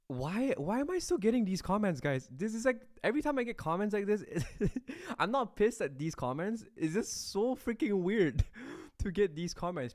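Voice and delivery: high-pitched, incredulous giggly protest; laughing in disbelief. Real, not acted. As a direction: protest through real laughter, stretching the key words. Cracking up at odd comments.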